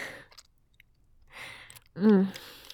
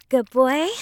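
put-on "Good boy" lifted into a question; teasing question; 3 semitones higher, 3 dB louder than usual. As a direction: tease with "Good boy", rising on "boy". Testing the pet name.

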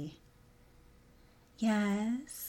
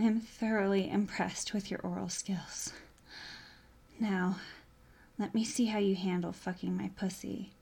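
breathy, unvoiced sultry whisper; seductive whisper. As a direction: whisper it close to his ear.

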